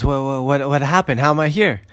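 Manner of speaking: mildly startled, stammered questions; shock and disbelief. Acted. Shmulek waking up back in the shul, mildly shocked. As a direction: build in bewilderment from word to word. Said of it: "looks around in shock and disbelief".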